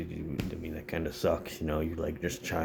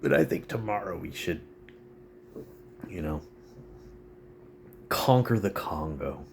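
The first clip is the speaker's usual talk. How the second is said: working class buddy; 2 semitones higher than usual. Retold or imitated. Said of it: "sitting there with their buddies like".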